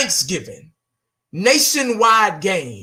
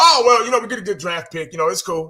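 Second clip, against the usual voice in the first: mock fan voice; 3 semitones higher, faster than usual.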